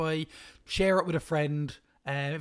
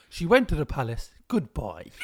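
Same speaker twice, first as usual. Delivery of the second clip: patronising. Retold or imitated. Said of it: "And then I said".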